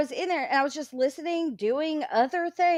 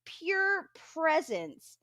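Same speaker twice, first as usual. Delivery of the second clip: retold angry rant; 2 semitones higher, 4 dB louder than usual. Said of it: "That's what I kept saying in their chat".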